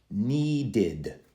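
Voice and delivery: NEEDED in two clear syllables, need-id; extra id ending. Shown as a demonstration. Teacher contrasting three endings, id ending. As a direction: sound the id at the end of NEEDED. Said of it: "I pronounce the E D differently".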